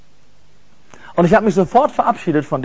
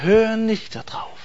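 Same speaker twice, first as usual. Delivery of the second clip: gentle voice. Retold or imitated. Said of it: "ganz lieb und wirklich sanft".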